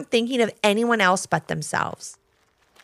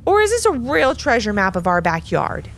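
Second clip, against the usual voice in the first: excited question with a touch of doubt; excited but skeptical. Acted. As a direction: ask it eagerly but not quite convinced. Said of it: "looking very excited, but also a little skeptical".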